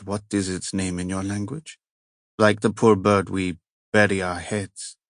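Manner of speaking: a touch of Italian as he ponders death; heavy Italian accent. Acted. Cardinal muses to the inspector on death, lightly Italian-accented. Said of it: "the heavy accent".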